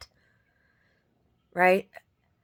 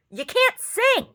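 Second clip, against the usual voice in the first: retold retort; 14 semitones higher, 4 dB louder, slower than usual. Retelling own retort to neighbor.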